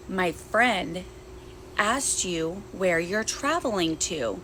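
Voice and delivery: slow, drawn-out creepy question; creepy stranger. Retold or imitated. The woman behind her repeats the question, slow and creepy. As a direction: stretch every word like a menacing stranger. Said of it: "Says it just like that".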